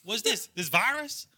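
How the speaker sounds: Chinese-born redneck. Acted. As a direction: protest in a Southern redneck accent. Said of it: "it's fully Chinese guy, but he's wearing".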